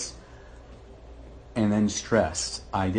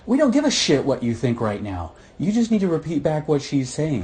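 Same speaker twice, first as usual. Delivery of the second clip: mock snapping counselor; 7 semitones higher, 7 dB louder than usual.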